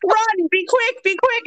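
very high, urgent mock Irish; Irish accent. Irish cashier rushing a customer through the store, Irish accent. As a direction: hurry them along in an Irish accent. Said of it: "this is my Irish accent".

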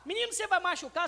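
put-on quick sharp warning to the kid; the wrong way, a fast scold; harsh warning. Shown as a demonstration. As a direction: snap the warning out. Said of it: "ao invés de falar".

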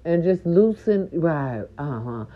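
muffled behind a hand; hand over mouth. Real, not acted. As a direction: talk through your hand. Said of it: "you could barely understand what I'm saying".

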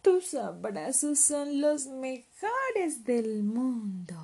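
high, slow, loving cub voice; sighed happily in a little voice; drawn-out tender child voice; contented sigh. Acted. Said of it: "suspiró Leopardito".

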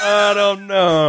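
a lightly voiced doubtful detective; unsure mumble. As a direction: shrug it off, drawn out and unconvinced. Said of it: "just being like".

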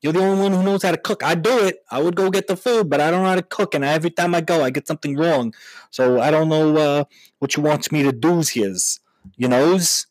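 a pleading dumb husband voice; Long Island husband. Acted. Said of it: "he's like".

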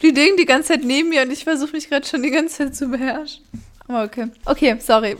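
words around a bite of chips; chewing while talking. Real, not acted. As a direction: talk while still chewing. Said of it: "Ich esse grad ganz kurz einen Chip".

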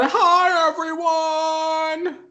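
high, slow forced cheer; fake happy. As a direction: greet everyone with a fake smile. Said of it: "Fake happy".

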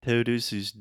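Portuguese said with an aspirated English T; imitating an American saying todos os dias; gringo accent. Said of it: "when you hear gringos say".

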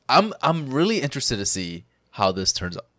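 words pushed through a burp; burping while talking. Real, not acted. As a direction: talk right through a burp. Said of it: "I just burped and talked at the same time".

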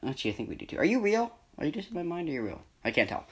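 softly musing, almost to himself; quiet. Pretend. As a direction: hush it like a spooky thought. Mock existential questioning.

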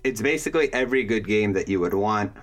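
words jumbling through a frozen jaw. Real, not acted. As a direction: mouth stiff with cold, words tumbling out. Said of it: "my jaw's frozen, so it's all just jumbling".

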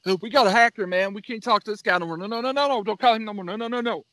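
mock freaking out. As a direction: imitate a scammer's buddy in a rapid fluster. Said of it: "He was freaking out".

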